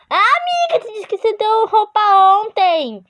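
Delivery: laughing while teasing. Real, not acted. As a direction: tease your friend through a laugh. Laughing at her friend.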